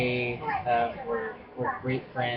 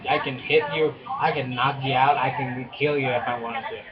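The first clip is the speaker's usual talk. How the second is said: half-joking protective big brother bluster, louder; mock tough threats; 4 dB louder than usual. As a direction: playfully threaten to batter anyone hurting his sister. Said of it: "I'm that brother that will protect".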